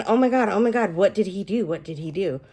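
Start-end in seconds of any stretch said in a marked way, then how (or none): 0.0-0.9 loud, high retold gasp of disbelief; hammed-up oh my God while reading; shocked reader. Reader reliving the book's twist, mock shocked. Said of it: "going through and going". 0.9-1.7 rising shocked question. Retold or imitated. Reader hooked on the mystery, mock stunned. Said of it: "going through and going".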